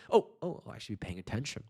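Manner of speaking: mock realization. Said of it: "It's more like a".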